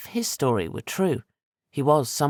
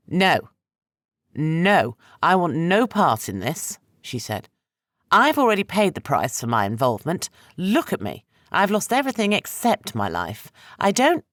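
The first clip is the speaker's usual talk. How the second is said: higher and louder, building to a cry; rising panic; 6 semitones higher, 4 dB louder than usual. Acted. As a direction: refuse in mounting panic. She refuses, rising panic.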